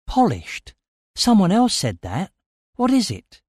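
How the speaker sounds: rising to a high-pitched demand; urgent questioning. A narrator's reading. Narrator grabs Stellos and demands meaning, urgent. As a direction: seize on the word and press hard.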